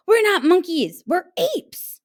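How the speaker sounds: high, loud indignant; indignant protest. A narrator's reading. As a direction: insist hotly. Jim protests.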